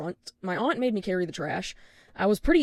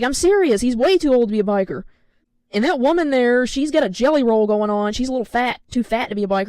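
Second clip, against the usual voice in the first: raised, insistent mimicked voice; imitated loud aunt; 3 semitones higher, 7 dB louder than usual. Aunt insisting about bikers nearby, loud tactless insistence. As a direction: carry it across to the people being judged.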